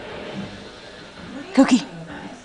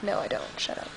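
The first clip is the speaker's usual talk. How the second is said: mock retort; 6 semitones lower, 16 dB quieter, much faster than usual. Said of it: "I'm like".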